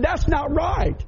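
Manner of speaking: repeated outraged cry; indignant shout. Retold or imitated. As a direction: cry out against the mess. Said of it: "They said".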